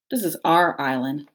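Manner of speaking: mild snarl. Acted. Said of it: "snarled Nettle".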